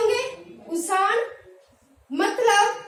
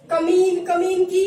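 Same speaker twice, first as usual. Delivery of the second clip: a louder mock curse; mock insult; 5 dB louder than usual. Teacher voicing how people curse with कमीन. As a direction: spit out कमीन as a mild insult. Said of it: "गाली देते हैं".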